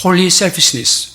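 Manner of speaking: soft, very slow "Holy selfishness"; name the term slowly, leaning on holy; stress on holy. Shown as a demonstration. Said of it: "이름을 붙여봤습니다". ("Holy"에 힘주어 조용히 느리게)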